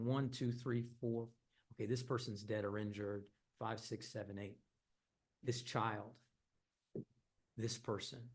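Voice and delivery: hushed counting. Retold or imitated. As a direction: count the victims under your breath, dropping away.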